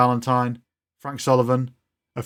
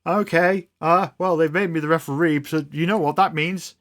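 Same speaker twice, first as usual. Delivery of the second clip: higher-pitched, chirpy robot nanny; 5 semitones higher than usual. Acted. Robot nanny explaining her referee job, high-pitched and fussy. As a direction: play the nanny turned referee.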